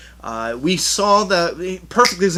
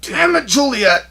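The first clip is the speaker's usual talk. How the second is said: loud, high surprised yell; startled exclamation; 9 semitones higher, 4 dB louder than usual. Real, not acted. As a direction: caught off guard, yelling. Caught by daughter.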